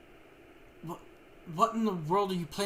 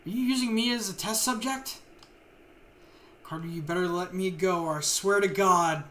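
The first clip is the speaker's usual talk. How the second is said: angry threat; 3 dB louder than usual. Acted. Captive threatens the doctor.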